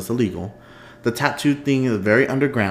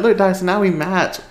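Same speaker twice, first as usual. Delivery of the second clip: high, louder proud reveal; excited showing off; 9 semitones higher, 5 dB louder than usual. Retold or imitated. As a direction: show it off, thrilled. Showing friend the matching tattoo.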